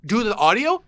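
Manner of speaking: shocked disbelief. Retold or imitated. Host confronting co-host over levels, mock-shocked high question. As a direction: act out the dawning horror. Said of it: "And I go".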